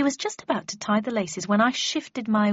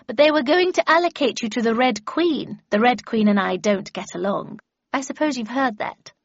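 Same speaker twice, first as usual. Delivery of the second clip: put-on higher, louder, brisk old mistress; haughty Miss Havisham; 3 semitones higher, 5 dB louder than usual. Miss Havisham explains why she took the apprentice, haughty. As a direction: inform a pupil with haughty impatience.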